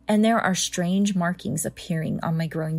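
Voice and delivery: steady storyteller narration; story narration. A narrator's reading. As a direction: read it like a creepy tale. Reads horror story aloud.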